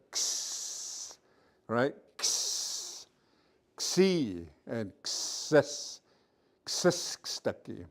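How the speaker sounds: "X" as a breathy throat sound with no voice; Blackfoot X sound. Shown as a demonstration. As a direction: hiss the "X" out, then "Xi", "Xis". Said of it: "these two put together".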